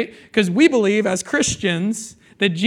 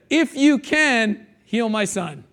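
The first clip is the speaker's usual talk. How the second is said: pleading father; 2 semitones higher, slower than usual. Retold or imitated. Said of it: "He said".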